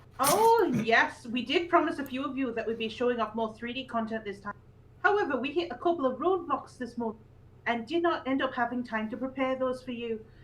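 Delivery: put-on read-aloud style in a Yorkshire accent. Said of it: "I'll do the Yorkshire one".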